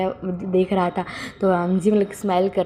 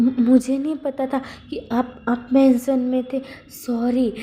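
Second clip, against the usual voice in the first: nervous stammer, a touch higher; 4 semitones higher than usual. Acted. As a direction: trip over the first words, then a small sorry. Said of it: "हकलाते हुए कहता है".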